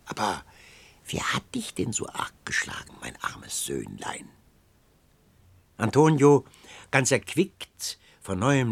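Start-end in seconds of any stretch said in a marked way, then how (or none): 0.0-4.3 put-on eerie old crone. A narrator's reading. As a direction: coax him like an uncanny old hag. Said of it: "frug sie".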